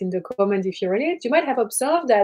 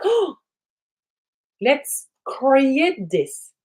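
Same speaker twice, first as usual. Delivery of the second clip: delighted realization; 3 semitones higher, much slower than usual. Acted. Sudden inspiration arrives.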